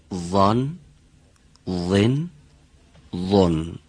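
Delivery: وان، وین، وون as thick emphatic ẓa syllables ending in N; heavy letter. Shown as a demonstration. Teacher correcting Mr. Shekari's thin kasra, heavy letter.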